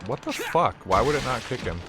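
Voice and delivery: sudden high disbelieving exclamation; baffled outburst. Real, not acted. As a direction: react in genuine confusion. Baffled by enemy behavior.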